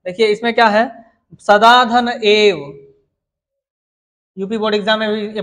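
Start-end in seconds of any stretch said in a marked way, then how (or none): 1.4-2.6 slow dictation. Shown as a demonstration. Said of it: "teacher dictating sandhi example".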